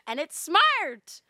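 laughing through the words, slow; amused, loud and drawn out. Real, not acted. Laughs at her own point.

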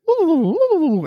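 high swooping "woo" sounds; falling-boxer wobble noise. Acted. Friend acting out a wobbly-kneed knockout, voiced woozy whoops. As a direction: mimic a dazed boxer toppling, way up high. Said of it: "I'll do my voice like".

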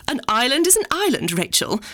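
a hint of a fussy mother prying; imitating Mummy.

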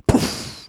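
airy puff, hardly voiced; mock yelled poof. A narrator's reading. Magician throwing another smoke bomb, airy poof. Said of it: "once again yelling".

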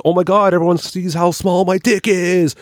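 high whiny mock panic; mocking Charles. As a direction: squeak it out like a mortified guy. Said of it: "he fucking looked down and goes".

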